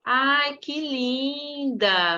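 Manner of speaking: slow, high, gushing praise; kindergarten teacher voice. Real, not acted. Praising a child's handmade doll.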